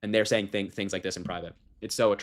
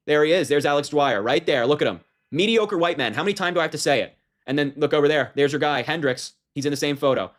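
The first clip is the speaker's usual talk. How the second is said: pissed off; 4 semitones higher, 4 dB louder than usual. Real, not acted. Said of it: "I'm pissed off right now".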